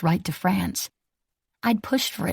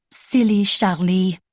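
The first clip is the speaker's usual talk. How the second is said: soft French lilt; 3 dB louder, slower than usual. A narrator's reading. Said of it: "giving it a soft French lilt".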